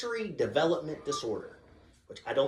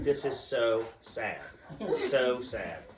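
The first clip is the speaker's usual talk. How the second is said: mock sorrow; 3 semitones lower, much slower than usual. Dad feigns sorrow to daughter.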